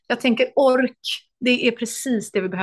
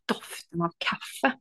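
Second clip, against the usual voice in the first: voice breaking; 4 semitones lower, 8 dB quieter, much slower than usual. Real, not acted. Moved while telling story.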